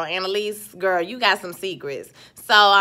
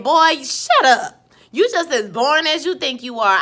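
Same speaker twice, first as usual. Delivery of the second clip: sassy put-down; 4 semitones higher, 5 dB louder than usual. Retold or imitated. Recapper acts out Annalise putting him in his place, sassy. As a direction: cut him down with stretched, high-pitched sass.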